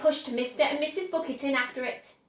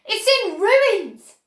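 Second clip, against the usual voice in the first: higher, louder and slow; dismayed cry; 8 semitones higher, 9 dB louder, slower than usual. A narrator's reading. Mister Bucket crying over his ruined house, dismayed. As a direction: wail it in dismay. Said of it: "cried poor Mister Bucket".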